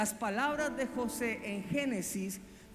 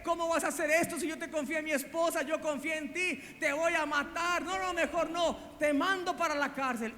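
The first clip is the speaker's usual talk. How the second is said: reproche enojado, más agudo y rápido; regaña al esclavo traidor, acelerado; Potifar enojado; 5 semitones higher than usual. Retold or imitated. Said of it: "Potifar llega enojado y le dice". (Potifar furioso regañando a José, agudo y rápido)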